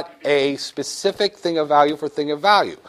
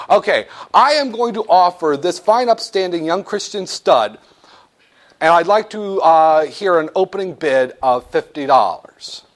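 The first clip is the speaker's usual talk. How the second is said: lightly voiced auctioneer calling for bids; a hint of an auctioneer opening the sale; 3 semitones higher than usual. Shown as a demonstration. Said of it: "Let me try an auction".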